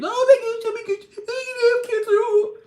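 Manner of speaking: high, loud hammed-up panic with a fake sob; over-the-top panicked cry; mock panic. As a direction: wail it like a melodramatic patient. Mock panic at cancer diagnosis.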